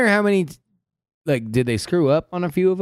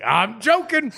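higher, laughing mock retraction; lightly acted "only kidding" with a laugh; mock just-kidding; 6 semitones higher, slower than usual. Leader calling off troops as a joke, laughing mock retraction. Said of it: "then he's just like".

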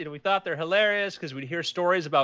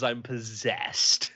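mock possessed; 6 semitones lower, much slower than usual. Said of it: "somebody else says".

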